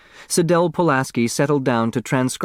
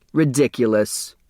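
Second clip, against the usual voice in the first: a mild scoff; 2 semitones higher than usual. Acted. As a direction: dismiss it with a short scoff. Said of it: "scoffed Sidel".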